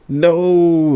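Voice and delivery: high, loud gleeful scream. Acted. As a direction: scream it through laughter. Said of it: "the boy screams".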